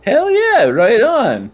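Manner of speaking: gnome voice. Acted. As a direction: cheer like a stoner gnome. Gnome voice continues.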